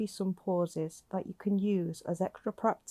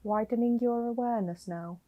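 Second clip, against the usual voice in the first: slightly softened meditation voice with long pauses; guided meditation; 3 dB quieter than usual. Acted. Guiding a listener lying down to notice their breathing, calm meditation voice. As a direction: gently guide the listener into breath awareness, leaving space between phrases.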